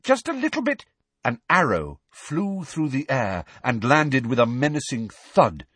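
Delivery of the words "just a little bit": calling out. Acted. Hermione keeps calling.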